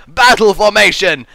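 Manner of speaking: loud, high, slow battle command; hammed-up army leader's order; lead frog commander. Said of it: "the lead frog is like".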